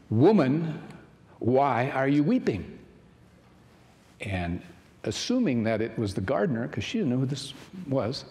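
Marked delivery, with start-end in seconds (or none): 0.1-2.8 louder, slower Jesus question; Jesus asking. Acted. Jesus asks the weeping woman at the tomb, louder and slow. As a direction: call out to her, slow and a touch louder.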